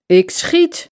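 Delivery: veel hoger, fel geroepen; roept. A narrator's reading. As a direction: schreeuw het als laatste waarschuwing. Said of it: "roept Hodja". (fel roepen naar de dief)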